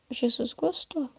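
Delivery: soft, slow echo. Shown as a demonstration. The preacher softly savours that Jesus was pleased. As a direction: repeat Jesus gostou quietly, slowly. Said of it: "said twice, softer".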